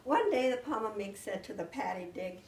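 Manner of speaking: put-on storytelling voice reading to children; story-time narration full of swapped sounds; spoonerized fairy tale. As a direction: tell the tale like to a class of kids. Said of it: "And so then I started out".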